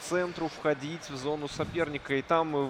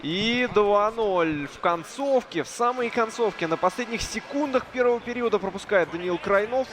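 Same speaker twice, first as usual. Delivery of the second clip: excited goal recap; 5 semitones higher than usual. Real, not acted. Follows goal, still elevated.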